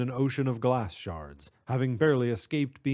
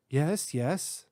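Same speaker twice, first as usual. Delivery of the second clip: put-on British accent; 3 semitones higher than usual. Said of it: "speaking with a distinct British accent".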